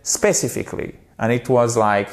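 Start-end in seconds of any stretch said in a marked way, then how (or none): 0.0-1.0 SPECIFICALLY with French-like first syllables; French-style mispronunciation. Shown as a demonstration. Teacher quotes the learner's error, French-style English. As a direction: say SPECIFICALLY without English stress on CI. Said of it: "because you said specifically".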